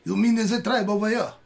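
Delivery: high, excited little chipmunk; frantic twitchy squirrel. Acted. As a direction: chatter like a jumpy squirrel. DM voices the chipmunk.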